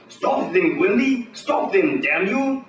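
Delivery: high, frantic screamed orders; high-pitched panicked yell; screaming. Acted. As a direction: shriek it at the henchman. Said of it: "Scientist keeps screaming".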